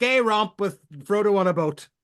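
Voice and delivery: mock delivery, belted loud and high-pitched. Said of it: "I'm looking at him going".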